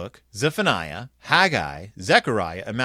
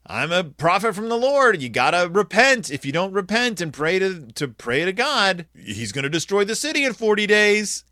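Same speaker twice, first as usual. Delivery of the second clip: higher, raised voice of a warning prophet; preaching prophet; 5 semitones higher than usual. Retold or imitated. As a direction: proclaim it like a street preacher. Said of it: "And he's like".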